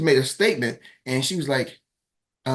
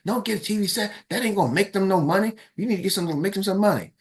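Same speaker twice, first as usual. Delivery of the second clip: wife's voice pitched higher, pushing back hard; insistent wife; 7 semitones higher, faster than usual. Retold or imitated. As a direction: argue like the wife who knows better.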